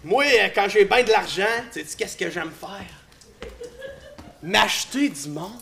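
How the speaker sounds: low, cold tyrant voice; dark lord. Acted. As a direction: lord it over your kneeling servants. Rich tyrant lords over kneeling people. (voix de seigneur des ténèbres grave)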